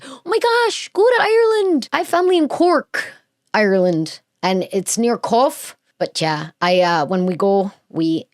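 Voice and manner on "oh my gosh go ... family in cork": high-pitched burst of enthusiasm; real delighted excitement; excited gushing. Real, not acted. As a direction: gush about a place you love. Gushing about trip to Ireland.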